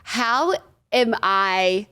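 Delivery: slow, laughing through the words; laughing disbelief. Real, not acted. A contestant laughing in disbelief at her random castmates. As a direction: crack up while asking how this happened.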